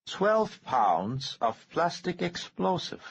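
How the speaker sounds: high, slow, cold menacing voice; the calm threat of a man holding a bomb trigger; menacing Harrington. A narrator's reading. Bomber threatening the senator's aide, slow and menacing.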